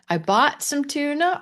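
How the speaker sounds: "I bought some tuna" rising high at the end, like a question; teacher's rising version; rising question tune. Shown as a demonstration. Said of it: "Or bought".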